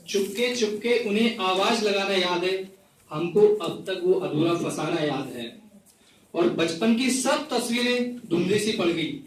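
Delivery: measured, repeating recital of a poem; poetry recital. Acted. Poet reciting a rain poem to the gathering, measured recital. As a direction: recite each line twice, savouring it.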